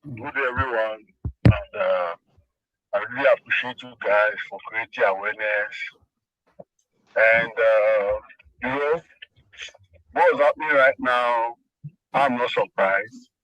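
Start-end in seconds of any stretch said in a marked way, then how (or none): 0.0-10.9 phone speaker. Real, not acted. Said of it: "Let me put you on speaker".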